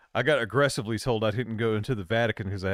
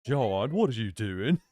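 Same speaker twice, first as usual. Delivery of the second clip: put-on Welsh accent; 2 semitones lower than usual. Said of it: "Welsh, yes".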